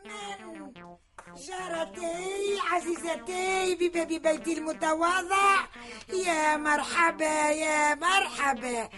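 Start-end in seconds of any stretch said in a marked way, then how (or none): 1.4-8.9 sugary welcome. Acted. Sly mock-sweet welcome.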